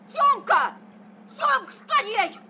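shouting a name across the yard; calling out. Acted. Calling a boy over.

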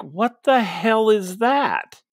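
high, slow, stunned disbelief; baffled outburst. Retold or imitated. Fan reacting to a sudden heel turn, high and slow in disbelief. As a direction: drag it out like you can't believe your eyes. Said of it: "And I'm like".

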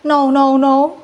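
loud no, no, no; shouting over wind. Real, not acted. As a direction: call out over the storm. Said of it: "anginnya kenceng banget".

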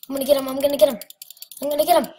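loud, fired-up and determined; scared and angry. Real, not acted. Charging an enemy.

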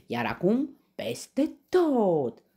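high, loud battle order; commanding. A narrator's reading. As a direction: order an all-out attack. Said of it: "poruncește el". (poruncă strigată)

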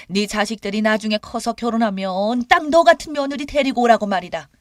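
indignant mother-in-law's tirade; angry rebuke. A narrator's reading. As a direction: lay into the daughter-in-law. Mother-in-law's angry retort in quarrel.

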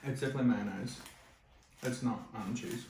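talking while chewing food; muffled words around food; mouth full, chewing. Real, not acted. Seen 1: Bite at -7s; jaw chews, lips pursed while he speaks.

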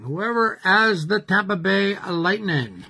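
lightly put-on French accent. Host naming the winning team for viewers, mock French accent. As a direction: say the team name with a hint of French. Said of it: "that's my French accent".

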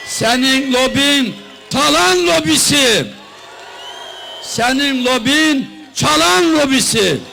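building from firm to shouting; rally speech. Real, not acted. Rally speech attacking the prime minister.

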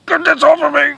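high, pained cry for help; distressed plea. Acted. Host trapped under rock to producer, distressed high cry. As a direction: plead at the top of your range.

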